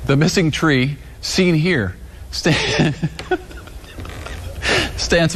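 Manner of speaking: stifling giggles mid-read; trying not to laugh. Real, not acted. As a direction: newsreader fighting back laughter. Newscaster cracking up on air.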